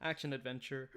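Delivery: talking through hiccups. Real, not acted. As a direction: catch of a hiccup in the words. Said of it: "Oh no, I got the hiccups".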